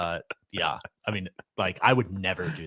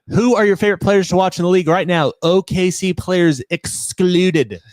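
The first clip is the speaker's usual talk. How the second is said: 1 mock announcer read; 8 semitones higher, 6 dB louder than usual. Reading listener question aloud.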